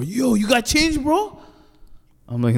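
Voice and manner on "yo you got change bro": high, pleading panhandler voice; mock panhandler plea. Panhandler begging at the pizza shop door, high and pleading. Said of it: "He opens, he opens the door".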